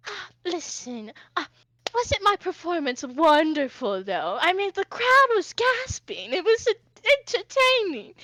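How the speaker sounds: high, loud, showy self-praise; flamboyant Hoshi, boastful. Acted. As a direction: gush theatrically about your own performance.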